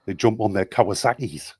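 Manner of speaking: Geordie accent demo; put-on Geordie lilt. Shown as a demonstration. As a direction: say it like a Newcastle Geordie. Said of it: "they talk like that from Newcastle".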